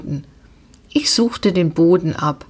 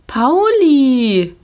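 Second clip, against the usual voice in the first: louder, higher sharp reproach; scolding shout; 6 semitones higher, 4 dB louder than usual. A narrator's reading. Girl scolding her pony for snapping at her friend.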